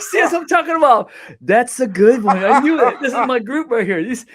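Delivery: loud, high, laughing exclamation; delighted triumph. Real, not acted. Comedian to friends after the joke lands, real loud delight.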